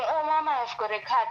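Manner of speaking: mild imitation of a child's plaintive call; crying child. Mother quotes her hurt child calling mama, lightly imitated crying. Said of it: "when they're crying, when they're saying".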